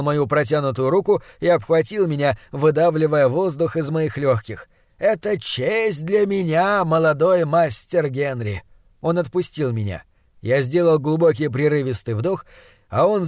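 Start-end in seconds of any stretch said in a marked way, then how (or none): 5.0-8.6 put-on honour the boy effusively, stretching each word; effusive Austrian host. Austrian host hugs the boy he admires, effusively.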